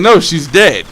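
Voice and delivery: mildly emphatic retold contradiction; adamant. Telling the other kid she is dead, adamant. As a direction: imitate a kid firmly insisting. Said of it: "Like, I was adamant".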